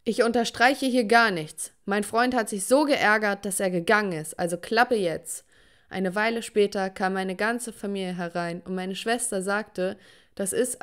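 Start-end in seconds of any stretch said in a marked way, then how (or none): 0.0-5.5 retold angry shout, louder than usual; dad yelling. Furious father yells at his singing daughter. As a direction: scold her hard through the door. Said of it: "klopfte und schrie".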